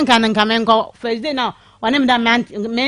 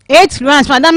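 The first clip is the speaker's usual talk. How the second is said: louder, leaning on the number; emphatic echo; 3 semitones higher, 6 dB louder than usual. Real, not acted. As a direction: throw the number back proudly. Caller echoes host's disbelief.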